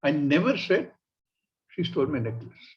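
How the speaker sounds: emphasise "never", then drop away on the rest; stress on NEVER. Shown as a demonstration. Lady denying it at the inquiry, stressing "never". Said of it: "shift the emphasis to never".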